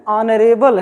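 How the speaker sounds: "ऑनरेबल" with no H at the front; silent H. Shown as a demonstration. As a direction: open "ऑनरेबल" straight on the vowel. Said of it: "इसको आप हॉनरेबल नहीं कहेंगे".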